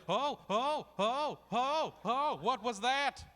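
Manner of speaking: loud mock alarm at a gut rumble, the ohs stretched; startled oh oh. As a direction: ham up a panicked oh oh oh. Retold gut shock after cereal.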